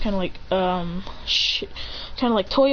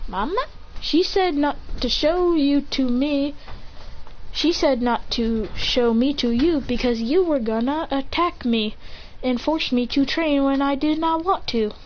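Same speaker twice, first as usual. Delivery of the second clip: lightly voiced child, raised pitch; measured, halting protest from a kid; child's answer; 4 semitones higher than usual. Son explaining his mother's warning to Endeavor, lightly voiced child.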